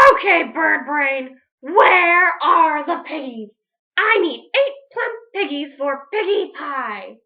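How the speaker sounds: bully the chicken; witch voice. Acted.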